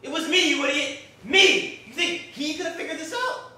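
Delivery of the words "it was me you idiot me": loud gloating confession; villain confession. Acted. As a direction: shout out the confession. Killer confesses.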